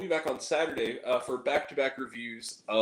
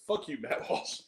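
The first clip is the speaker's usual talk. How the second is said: whispered curse; 5 dB quieter than usual. Real, not acted. Repeated curse, unvoiced.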